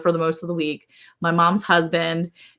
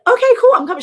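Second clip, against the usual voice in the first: mock casual reply; 7 dB louder, much faster than usual. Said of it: "was like".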